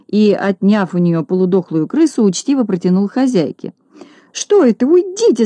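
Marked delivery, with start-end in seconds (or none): 4.4-5.5 squeal. Acted. Lady recoiling from the rat, high shrieking squeal. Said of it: "завизжала Минога".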